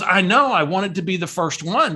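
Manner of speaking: mildly chirpy, pleased-with-herself retelling; cheery Barbara. Retold or imitated. Barbara admits calling early for the birthday, cheery imitation. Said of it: "she's all cheery".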